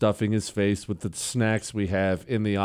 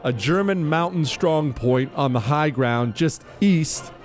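formal citation read over music; crisp military citation. Acted. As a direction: read it like an official military commendation. Reads the medal citation aloud.

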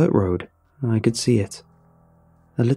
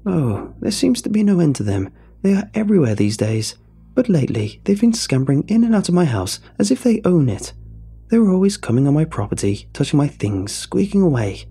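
put-on high, rambling old lady voice; exclaiming old woman; 7 semitones higher than usual. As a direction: ramble on like a fretful granny. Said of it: "Missus Kettlewell exclaimed".

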